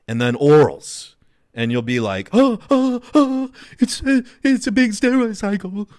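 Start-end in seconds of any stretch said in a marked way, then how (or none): 2.3-5.9 much higher, louder hammed-up gasp of awe; overdone wide-eyed amazement at big numbers; mocking impressed newbie. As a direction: squeak it out like a shocked gym newbie. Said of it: "imitate their voice like that".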